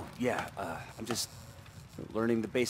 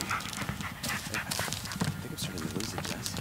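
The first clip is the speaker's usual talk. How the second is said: quiet and shaken; 3 semitones lower, 6 dB quieter, slower than usual. Acted. Confessing fear to friend.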